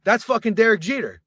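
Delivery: high-pitched starstruck outburst; hammed-up disbelief; mock amazement. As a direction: imitate a drunk friend's astonishment. Greg discovers the star.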